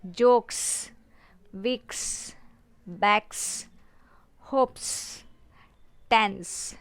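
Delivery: "जोक्स", "विक्स", "बैक्स", "होप्स", "टेंस" each hissed at the end; voiceless s ending. Shown as a demonstration. Teacher drilling a list, "जोक्स" to "टेंस" ending in voiceless s. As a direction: separate words, a crisp unvoiced s closing "जोक्स" through "टेंस". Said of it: "स के sound आ रहा है".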